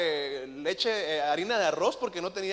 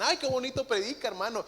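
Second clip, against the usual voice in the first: admiring churchgoer; 6 semitones higher than usual. Retold or imitated. People praising his preaching.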